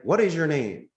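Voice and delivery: curt "What is your name?" falling flat at the end; mildly defensive receptionist; negative tone. Retold or imitated. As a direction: ask "What is your name?" a bit suspiciously. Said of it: "sometimes they might have a negative tone".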